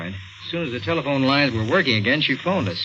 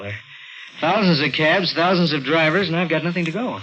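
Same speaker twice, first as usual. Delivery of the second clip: exasperated; 5 semitones higher than usual. Acted. Detective frustrated, no leads.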